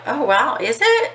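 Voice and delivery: mock surprised, pitch leaping up on is it; mock surprise. Mocking the teen's excuse with fake surprise. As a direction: fake wide-eyed surprise. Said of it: "And I'm like".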